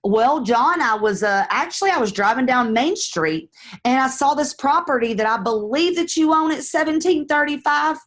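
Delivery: easy, casual neighborly opener; friendly caller demo. Shown as a demonstration. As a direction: chat like you just drove past his house. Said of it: "I'm gonna say something like this".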